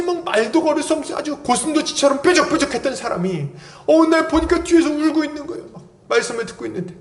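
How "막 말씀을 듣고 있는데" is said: ordinary talk, nothing marked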